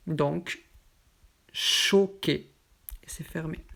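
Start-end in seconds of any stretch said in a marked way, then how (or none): 1.5-2.5 "choqué" with a closed o, first syllable stressed. Shown as a demonstration. Teacher showing students the closed o in "choqué". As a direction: round the o tight in "choqué".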